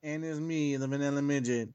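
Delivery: lightly put-on Mexican accent; half-hearted mock Mexican accent. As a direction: introduce yourself with a hint of a Mexican accent. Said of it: "decided to do a Mexican accent".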